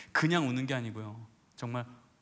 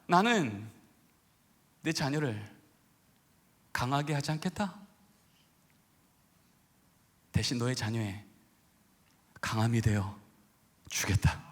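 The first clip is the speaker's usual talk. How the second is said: God's promise spoken gently to a parent, fading to a whisper; hushed voice of God. Retold or imitated.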